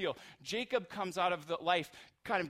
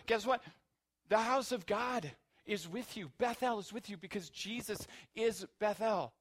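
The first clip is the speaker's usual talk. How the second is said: loud, higher, driving; full-force preaching; 6 semitones higher, 6 dB louder than usual. Real, not acted. Pastor preaching to the congregation at full force. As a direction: preach it hard to the room.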